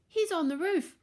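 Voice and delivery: high, panicky piglet voice; shivering fear. A narrator's reading. Horace warns his brothers about the roof, shivering fear. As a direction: squeak the news in fright. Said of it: "shivered Horace".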